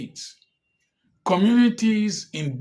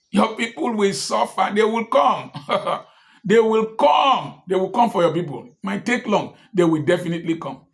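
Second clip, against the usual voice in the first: raised, insistent warning of what is coming; ominous warning; 4 semitones higher, 4 dB louder than usual. Real, not acted. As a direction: hammer the threat home, louder. Warning the governor of retaliation.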